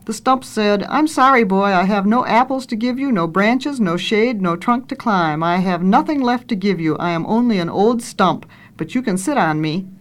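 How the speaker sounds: storybook reading with lightly lifted dialogue; story narration. A narrator's reading. Reader tells how the boy grew up, story narration. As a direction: read a children's tale aloud, lifting the questions.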